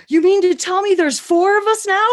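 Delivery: high, loud excited disbelief; amazed squeal. Retold or imitated. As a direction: imitate her shrieking with delight. Acts out server's amazed reply.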